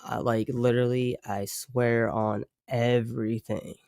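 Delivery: earnest, not sarcastic. Real, not acted. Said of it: "I'm not even being sarcastic".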